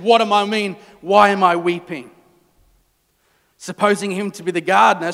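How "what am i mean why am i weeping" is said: louder, mocking repeat; mocking the question. Mary mocking the angels' question, scornful. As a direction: parrot it back with scorn. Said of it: "they just asked me the same question".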